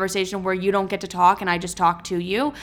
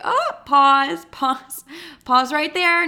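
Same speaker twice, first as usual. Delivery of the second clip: higher, louder halt call; emphatic; 7 semitones higher, 4 dB louder, much slower than usual. Retold or imitated. Telling herself to stop dating men, emphatically. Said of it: "I was like".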